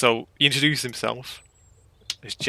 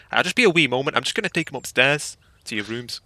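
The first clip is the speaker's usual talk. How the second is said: put-on Scottish accent; 4 semitones higher, 4 dB louder than usual. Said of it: "I'm gonna have to do a Scottish accent".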